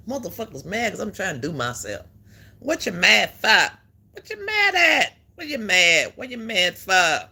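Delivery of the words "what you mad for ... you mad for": loud mocking taunt. Real, not acted. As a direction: needle the haters loudly. Taunting haters on stream.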